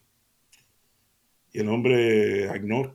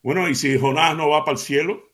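a louder, mocking challenge; half sarcastic; 2 semitones higher, 7 dB louder than usual. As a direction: needle her with a smug jab. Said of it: "dice el hombre medio sarcásticamente".

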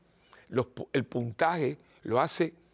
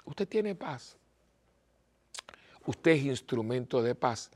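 retreat question; slower than usual. Shown as a demonstration. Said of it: "le voy a hacer unas preguntitas".

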